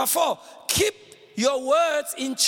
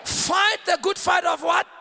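forceful, urgent call ending on a question; emphatic preacher's prompt, quicker and driving; like life depends on it; 4 semitones higher, 3 dB louder than usual. Shown as a demonstration. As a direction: punch it out to rouse the crowd. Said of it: "Say it like your life depends on it".

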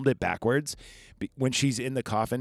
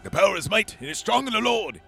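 high, loud hammed-up preacher; preaching exorcist; 10 semitones higher, 4 dB louder than usual. Van Helsing holding the cross up to Lucy, preaching high and loud. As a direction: bellow it like a revival preacher. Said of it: "Van Helsing's got his cross, and he's like".

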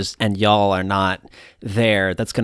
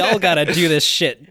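laughing; 6 semitones higher than usual. Real, not acted. Laughing while giving advice.

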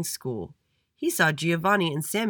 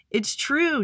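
high, louder story-voice shout; 11 semitones higher, 5 dB louder than usual. A narrator's reading. Frankie vouching for Andy to the principal, shouting. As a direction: pipe up high and loud. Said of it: "shouted Frankie".

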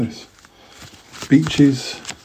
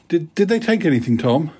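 a hint of a higher eager boy voice; lightly voiced schoolboy; 5 semitones higher than usual. Schoolboy asking friend about the theft, lightly voiced higher. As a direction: ask like a curious schoolboy, higher. Boy character in read story.

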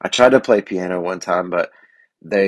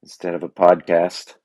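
frog voice. Real, not acted. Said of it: "'cause my frog voice".

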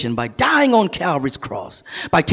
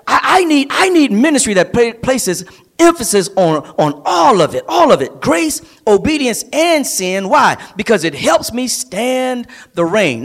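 lively, raised-pitch pulpit delivery; preaching; 5 semitones higher than usual. Real, not acted. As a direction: preach it with insistence, punching key words. Preaches with rising force.

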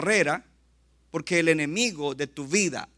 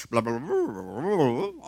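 mock rushed reading; 4 semitones lower, slower than usual. Mocking hurried Bible reading.

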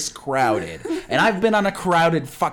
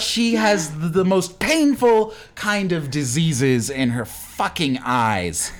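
bitter curse; 3 semitones higher, slower than usual. Acted. Cursing the marathon runner.

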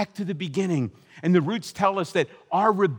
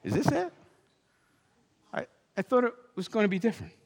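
disappointed; 7 semitones higher, much faster than usual. Retold or imitated. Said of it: "look around and say".

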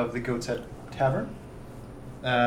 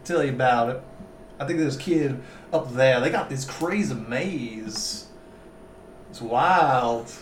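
lightly slurred southern magistrate; southern accent. Acted. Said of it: "Stop doing the southern accent".

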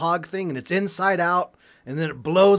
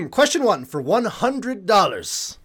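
game show host; 4 dB louder than usual. Acted. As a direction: announce it like a TV quiz host. Reading a quiz question as host.

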